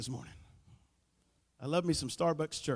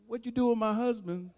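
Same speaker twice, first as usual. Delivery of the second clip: higher, bewildered wife voice; wife's voice; 5 semitones higher than usual. Pretend. Wife answering her husband's prayer talk, higher and bewildered. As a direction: play the puzzled wife. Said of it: "She go like".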